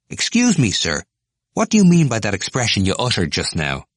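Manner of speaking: high, loud, pushy; eager question. Acted. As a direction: press Stephen keenly.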